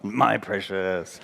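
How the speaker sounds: slow, lightly voiced creature croon; a hint of mock Gollum. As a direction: drag out the phrase like a greedy creature. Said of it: "you remember Lord of the Rings".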